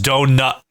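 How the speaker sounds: "donut" cut off before the T; dropped final T. Shown as a demonstration. Teaching East Coast speech, "donut" without a released T. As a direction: stop dead in the vowel of "donut". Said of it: "and you just stop".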